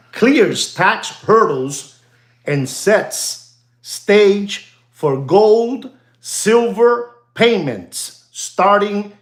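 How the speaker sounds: pompous slow news read; headline read. Acted. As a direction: read the news line out word by word. Reads out a headline.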